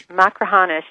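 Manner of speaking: Machrihanish said again as mak-ruh-HAH-nish; It's Machrihanish, HAH stressed and falling; repeating pronunciation. Shown as a demonstration. Guest repeats Machrihanish to the host, HAH stressed. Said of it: "help me with the pronunciation of".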